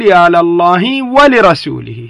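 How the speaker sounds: "ولرسوله" slow with the second lam broken as "لِ"; demo with kasra. Shown as a demonstration. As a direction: say "يا لله ولرسوله" slowly, the lam of "لرسوله" with kasra. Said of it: "أقول". (نطق "ولرسوله" ببطء بكسر اللام)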